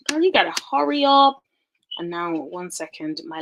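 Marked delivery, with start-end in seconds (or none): 0.1-1.4 urging herself. Retold or imitated. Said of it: "I'm just like".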